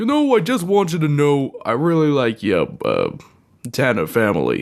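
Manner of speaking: put-on laid-on slow, drawn-out, swooping, sing-song Brooklyn accent. Imitating Alf from the TV show: Alf with a Brooklyn accent. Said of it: "didn't he have a Brooklyn accent?".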